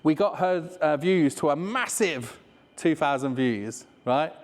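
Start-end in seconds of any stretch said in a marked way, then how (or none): 1.0-3.8 mock grand. Shown as a demonstration. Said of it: "Which is crap".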